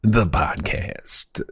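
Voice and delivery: slow, ceremonious mock-pompous declaration; florid old-time orator. Host declaring the podcast started, as a florid orator. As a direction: stretch out the big announcement.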